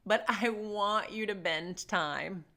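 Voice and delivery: put-on slow, drawn-out toddler whine; lightly voiced child's lament; mock whiny lament. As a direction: plead like a wronged three-year-old. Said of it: "his lament became".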